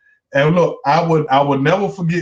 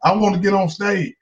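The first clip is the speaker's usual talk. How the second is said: put-on a lightly raised, eager girl's voice, pressing fast; pushing hard to get her shot, pitched up; eager young woman; 6 semitones higher than usual. Girl begging a comedian for stage time, lightly pitched-up plea. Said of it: "she was like".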